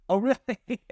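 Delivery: high, amused "Oh, really?"; mock surprise. Filmmakers hearing about the nail salon, in a mock surprised lilt. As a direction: play up the disbelief lightly.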